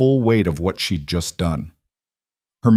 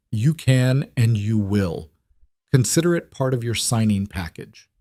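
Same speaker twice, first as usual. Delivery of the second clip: firm, no argument. Acted. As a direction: settle it, no room to argue. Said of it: "His tone left no room for argument".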